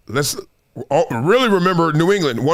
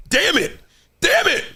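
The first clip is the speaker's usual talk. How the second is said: frustrated damn it; 9 semitones higher than usual. Acted. Mock frustration.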